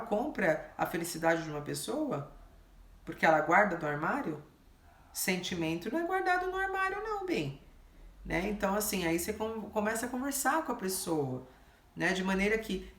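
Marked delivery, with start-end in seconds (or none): 5.1-7.6 much higher, coaxing reproach; high honeyed telling-off; sweet scolding. Acted. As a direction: scold him sweetly, pitched up. Gently scolding the client.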